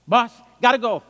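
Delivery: loud, high, hurried alarm; urgent warning. Retold or imitated. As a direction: sound the alarm to leave now. Toto urgently warns of trouble.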